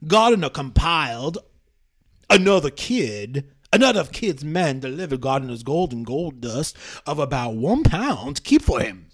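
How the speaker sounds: lightly voiced southern gentleman reading; old southern gentleman. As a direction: read testimony like a genteel old southerner. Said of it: "I'll do the, the old southern gentleman".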